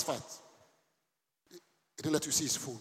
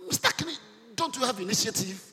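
board chairman; 7 semitones higher, 3 dB louder than usual. Retold or imitated. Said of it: "the board chairman said".

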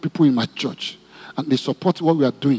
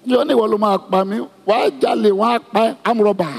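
fast, higher mock scolding of a child; scolding mother; 7 semitones higher than usual. Shown as a demonstration. A mother scolding Johnny in Yoruba, mock angry. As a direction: rattle off curses at the child, half in jest. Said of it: "you can't be talking like that".

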